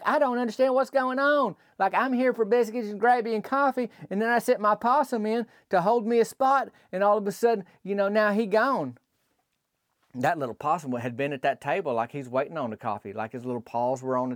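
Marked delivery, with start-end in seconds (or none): 0.0-9.0 put-on confused old lady. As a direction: play Millie baffled at the locked door. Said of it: "Like, like".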